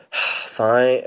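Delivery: sighed, mock-reluctant fine; sigh, then give in; grudging agreement. Retelling her giving in, with a reluctant sigh.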